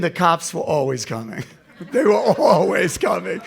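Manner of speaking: loud laughing exclamation; amused shout about the cops. Real, not acted. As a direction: laugh through it, voice up high. Laughing about cops always coming.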